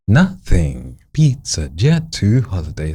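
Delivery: each syllable on a new note, jumping up on pizza; sing-song up and down on every word; yo-yo melody. Shown as a demonstration. Coach demonstrates a never-monotone exercise, yo-yo melody. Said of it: "the next syllable has to be a different note".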